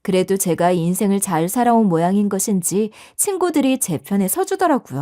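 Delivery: ordinary delivery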